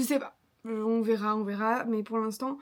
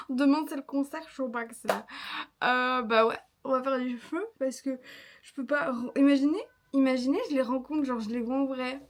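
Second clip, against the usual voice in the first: surexcitée, rires et cris; déborder d'excitation, rapide; too much caffeine; 3 dB louder than usual. Real, not acted. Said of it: "je suis surexcitée". (surexcitée, au max)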